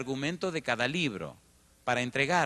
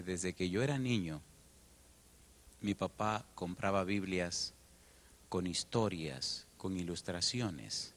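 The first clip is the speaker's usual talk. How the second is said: tender memory; 5 semitones lower, slower than usual. Real, not acted.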